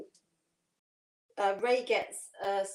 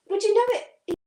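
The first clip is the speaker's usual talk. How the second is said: high laughing reveal; 9 semitones higher, 8 dB louder than usual. Real, not acted. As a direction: laugh the punchline out.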